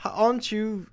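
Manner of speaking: halting stab at British; tentative British accent; attempted British accent. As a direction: try out a British accent, unsure. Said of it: "we're back to British".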